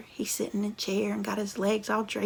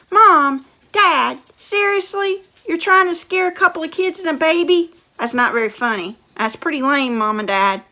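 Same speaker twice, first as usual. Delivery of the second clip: loud, higher scolding disbelief; mocking fed-up teen; exasperated brother; 6 semitones higher, 16 dB louder than usual. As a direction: call their bluff loudly.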